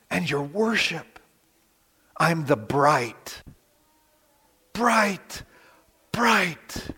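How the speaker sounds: slow, preening boast about himself; arrogant self-praise. Pretend. Preacher mocking a boastful man, slow and preening. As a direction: play a vain man admiring his own shine. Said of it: "If I start talking like that".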